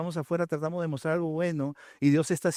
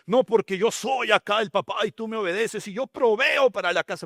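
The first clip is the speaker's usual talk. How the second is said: lightly voiced bossy father; 4 semitones higher, 3 dB louder than usual. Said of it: "voicing a bossy father".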